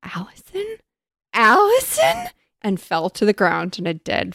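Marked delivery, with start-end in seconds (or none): 0.0-0.8 soft, high questioning murmur; small, high, stunned question. A narrator's reading. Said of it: "Kelly murmured". 1.3-2.3 high, loud disbelieving question; hammed-up high-pitched astonishment; stunned exclamation. A narrator's reading. Repeated name before fainting, read aloud.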